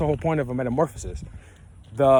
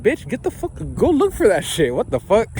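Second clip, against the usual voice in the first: high, hammed-up outraged yell; a retold outburst, pitched way up; mock angry retort; 7 semitones higher than usual. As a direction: snap back at the nosy lady in a put-on squeal. His retold angry reply to lady.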